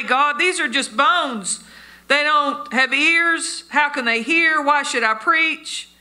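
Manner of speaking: acted-out questioning of God; mock protest.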